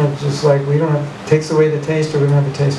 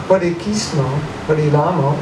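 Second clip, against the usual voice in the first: Bengali-accented mantra; "Krishna" as "Kishno", Bengali style. Shown as a demonstration. Teacher showing Bengali mispronunciation of the mantra, Bengali accent. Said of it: "it's not Hare Krishna".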